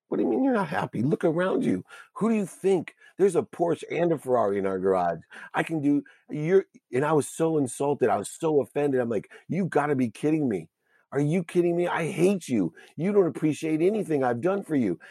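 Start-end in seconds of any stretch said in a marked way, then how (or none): 0.1-6.7 retold outrage. Retold fight with wife, pitch raised. 9.5-15.0 retold outrage. Retold fight with wife, pitch raised.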